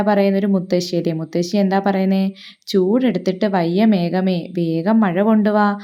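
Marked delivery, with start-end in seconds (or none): 2.7-5.8 slow, tired plea to the cloud; a lightly voiced grandmother worn out by heat; weary grandma. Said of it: "ഭയങ്കര ചൂടാണ്".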